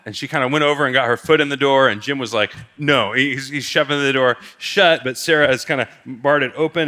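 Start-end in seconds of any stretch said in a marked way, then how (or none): 2.8-3.1 firm refusal. Retold or imitated. Husband refusing, shoving door shut.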